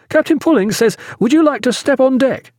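high, eager youngster's voice; youthful joy. A narrator's reading. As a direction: burst in brimming with boyish delight. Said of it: "alive with youthful joy".

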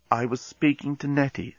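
quiet, sulky bomb voice; sulky talking bomb. Acted. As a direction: sulk like a hurt machine. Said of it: "said the Bomb in a sulky voice".

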